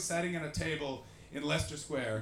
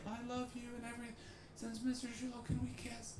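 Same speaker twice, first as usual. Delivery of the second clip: imitating himself starstruck; 7 semitones higher, 9 dB quieter than usual. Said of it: "I was like".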